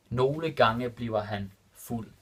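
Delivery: Nogle gange bliver han fuld said slowly, word by word; careful slow repeat for students; slow and clear. Shown as a demonstration. Teacher repeating the Danish example for learners, slow and clear. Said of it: "repeated slower for learners".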